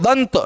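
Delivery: दंत with the nasal said as a full न; dental n sound. Shown as a demonstration. Teacher having students listen for the nasal, n in दंत. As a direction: hold the n against the teeth in दंत. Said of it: "न का".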